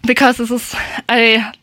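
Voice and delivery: breathless, catching air between words; out of breath. Real, not acted. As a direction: talk while still panting. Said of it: "I'm a little bit out of breath".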